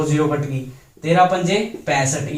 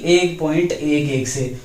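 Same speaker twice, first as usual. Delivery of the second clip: slow, digit by digit; 2 semitones lower, slower than usual. Shown as a demonstration. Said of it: "ग्यारह से नहीं".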